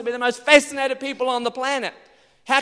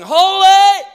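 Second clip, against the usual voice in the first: awestruck shout; 10 semitones higher, 15 dB louder than usual. Pretend. Someone seeing God, awestruck high shout. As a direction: shout it high and loud in wonder. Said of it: "you'd be going".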